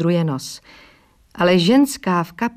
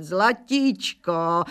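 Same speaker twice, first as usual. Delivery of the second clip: slow, stretched-out zlatíčko, syllable by syllable; a long, lingering zlatíčko; drawn-out endearment; much slower than usual. Acted. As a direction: draw out zlatíčko lazily, savouring it. Bytný pats her, sweet-talking.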